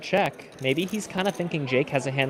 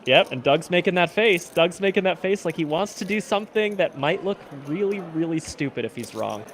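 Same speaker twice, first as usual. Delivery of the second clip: excited commentary; 6 semitones higher than usual. Real, not acted. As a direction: build the hype on the big bet.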